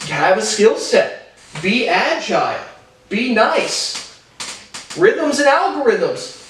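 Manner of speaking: high, slow, preachy slogans; mocking Mark Cuban. Vlogger mocking Cuban's business slogans, high and slow. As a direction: recite them like empty motivational mottos. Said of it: "some more quotes".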